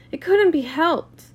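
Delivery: high, loud, drawn-out cheery cry; brightly overdone, slow and sing-out; tense gaiety. A narrator's reading. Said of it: "cried Daisy with tense gaiety".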